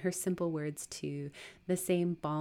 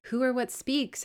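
startled high, louder question; terrified; 9 semitones higher, 6 dB louder than usual. Acted. Woman startled by an unseen voice, terrified. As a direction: blurt it out in alarm. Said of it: "terrified at the unexpected sound".

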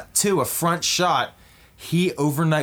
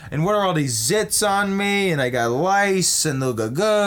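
dismayed whine; 4 semitones higher than usual. Acted. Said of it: "he's like".

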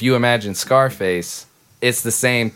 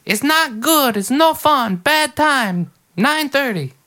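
much higher squeezed character voice; redoing the bit for the friends, much higher; high-voiced bad time guy; 13 semitones higher, slower than usual. Shown as a demonstration. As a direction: push it way up into the silly high voice. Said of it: "the joke is you don't know whether he's saying bad time or bedtime".

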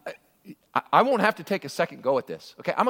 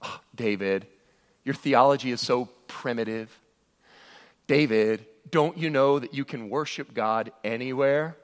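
condescending; 4 semitones lower than usual. Retold or imitated. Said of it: "we might look at David and go".

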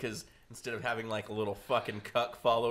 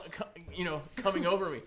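mock aroused woman; 5 semitones higher than usual. Mocking the vegan woman's reaction.

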